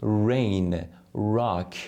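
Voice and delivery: rain, rock with rounded lips; slow, careful rain and rock; teacher's r demo. Shown as a demonstration.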